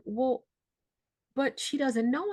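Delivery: put-on childlike voice. Daughter to nurse, sounding like a small child. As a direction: plead like a lost child of seven. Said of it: "I sounded like I was seven or eight".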